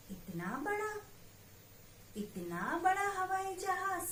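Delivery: lightly acted lesson story for kids; story reading for children. Teacher reading a picture story to children, lively. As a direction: read the little story to the class, lively.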